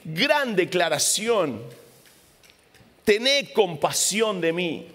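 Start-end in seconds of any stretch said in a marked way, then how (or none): 3.0-4.9 grito suplicante. Acted. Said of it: "empieza a gritar".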